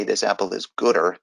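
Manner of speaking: "gooder" said plainly as the mistaken comparative; wrong form. Shown as a demonstration. Teacher showing students the wrong comparative, plainly. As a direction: offer "gooder" as the word students should not use. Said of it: "you don't say".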